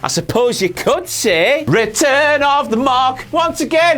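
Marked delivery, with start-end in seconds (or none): 1.7-3.3 trailer voice. Pretend. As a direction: announce it like a film. Mock movie title.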